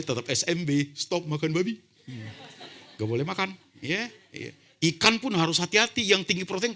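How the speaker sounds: high, loud, playful outburst; mock-outraged preacher squealing about pork; excited comic rant. Real, not acted. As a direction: pitch way up and rant about losing your favourite food.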